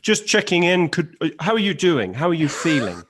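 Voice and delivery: a soothing, caring interviewer; therapist Louis. Retold or imitated. Guest imitates Louis gently checking on an interviewee. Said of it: "psychotherapist thing where he's sort of say".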